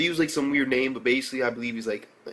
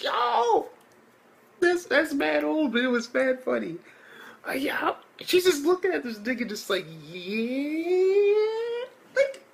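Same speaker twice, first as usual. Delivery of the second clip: mock shocked whisper; slower than usual. Retelling the girl's shocked reaction.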